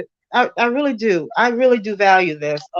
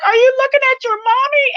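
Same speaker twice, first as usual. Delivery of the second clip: put-on baby talk to a slug; 4 dB louder than usual. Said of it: "and I was like".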